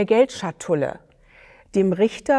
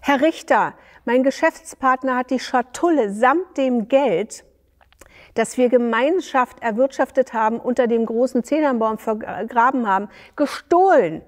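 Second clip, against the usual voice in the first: higher, raised voice of false indignation; hypocritical call; 5 semitones higher than usual. Acted. Dayan falsely accusing his partner before the judge, hypocritically. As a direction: play the wronged man, all pretence. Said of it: "rief Dayan dem Richter scheinheilig zu".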